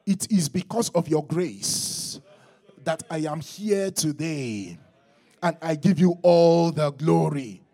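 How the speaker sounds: high, loud, slow declaration; shouted praise. Shown as a demonstration. Preacher leading the church in thanks, high shouted praise. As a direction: call it out for a congregation to repeat. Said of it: "Someone shout and say".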